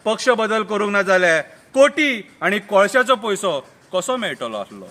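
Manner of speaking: full-voiced line dropping at the end; declaimed verse. Murgaon politician justifies switching party, declaimed. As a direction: declaim it, then let the last phrase fall. First take of repeated verse.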